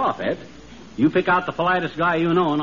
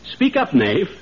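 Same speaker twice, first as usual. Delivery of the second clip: hammy stage actor. Acted. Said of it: "the way Sir Walter Raleigh talks".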